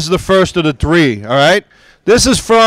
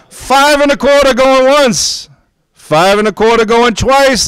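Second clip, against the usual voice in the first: drawn-out going once; 8 semitones higher than usual. Real, not acted. Slow drawn-out going once call.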